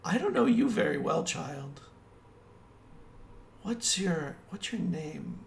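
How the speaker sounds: curious captive woman. Acted. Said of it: "and she goes".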